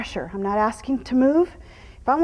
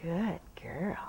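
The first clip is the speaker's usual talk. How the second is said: whispered praise; 7 semitones lower, 11 dB quieter than usual. Real, not acted. Calming the horse.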